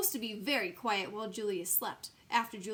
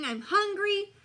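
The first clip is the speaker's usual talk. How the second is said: whiny; 10 semitones higher, 7 dB louder, slower than usual. Acted. Whining complaint.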